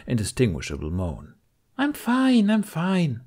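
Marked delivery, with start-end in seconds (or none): 1.8-3.2 very high yell settling down; yelled over the crowd. Acted. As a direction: shout above the noise of the crew. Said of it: "she yelled over the din".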